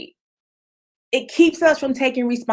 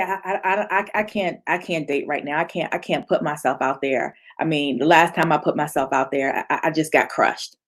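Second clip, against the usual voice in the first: lower, softer, stuttering timid voice; mock nervous heartbroken stammer; stammering victim; 7 semitones lower, 4 dB quieter, faster than usual. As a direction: hesitate and shrink away. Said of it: "you say".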